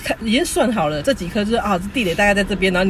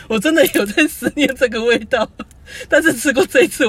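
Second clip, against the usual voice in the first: laughing; 5 semitones higher, 3 dB louder than usual. Real, not acted. Laughing while retelling his quip.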